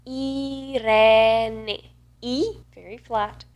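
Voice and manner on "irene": Irene drawn out in Italian, each vowel pure; exaggerated Italian pronunciation. Shown as a demonstration. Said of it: "the way I pronounce my name is this".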